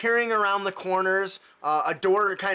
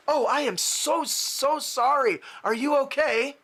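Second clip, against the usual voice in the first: higher-pitched, effusive apology; flustered apologetic gentleman; 7 semitones higher than usual. Acted. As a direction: gush an apology in character, pitched up. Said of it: "a gentleman in a suit comes out and says".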